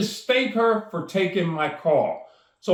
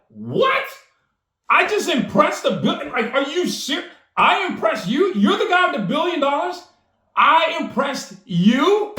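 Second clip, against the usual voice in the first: amazed disbelief; 6 semitones higher than usual. Retold or imitated. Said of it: "And I'm like".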